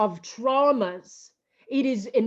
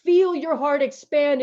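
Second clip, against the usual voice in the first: emotional; 4 semitones higher, 4 dB louder than usual. Real, not acted. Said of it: "that's why I'm emotional".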